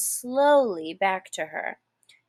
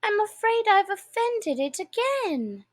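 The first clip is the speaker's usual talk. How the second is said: sorrowful; 11 semitones higher than usual. A narrator's reading. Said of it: "in a sorrowful tone".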